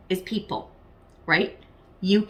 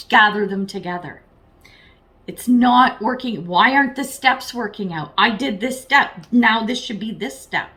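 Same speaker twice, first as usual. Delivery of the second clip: frustrated rant; 4 dB louder than usual. Retold or imitated. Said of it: "it's fucking driving you crazy".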